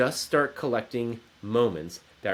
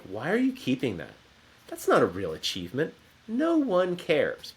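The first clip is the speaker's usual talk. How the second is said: inner critic; 4 semitones higher than usual. Acted. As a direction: imitate a dismissive inner voice. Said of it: "That inner critic voice would say to me".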